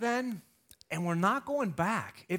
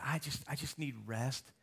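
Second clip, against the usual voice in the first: weary plea; 4 semitones lower, 11 dB quieter than usual. Retold or imitated. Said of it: "Anybody need that?".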